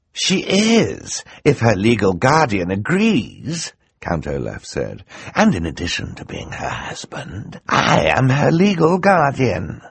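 triumphant theatrical villain revealing his plan; scheming Count Olaf. Acted. Olaf answers smugly.

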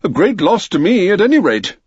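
high, aggrieved miller voice; self-pitying miller. Acted. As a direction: complain about your own loss. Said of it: "answered the miller".

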